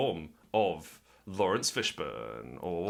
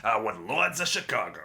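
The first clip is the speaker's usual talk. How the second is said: put-on Jersey accent; 3 semitones higher than usual. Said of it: "Apparently we all got Jersey accents".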